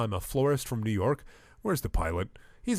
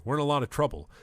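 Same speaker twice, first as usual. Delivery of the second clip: mild panicky tone; 3 semitones higher, faster than usual. Acted. Co-pilot warning her partner they are in trouble, mildly panicky. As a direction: let a touch of panic into it. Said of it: "that panicky tone in your voice".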